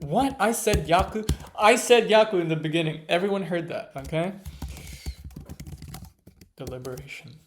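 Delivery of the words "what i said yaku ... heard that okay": louder, incredulous insistence; indignant protest. Real, not acted. Learner arguing loudly with the app over her first answer.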